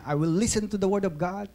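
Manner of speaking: recited Bible declaration, slowing at the end; Joel Osteen. Retold or imitated. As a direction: recite it as a pledge, stretching the final nevers. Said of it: "Tapos sasabihin niya".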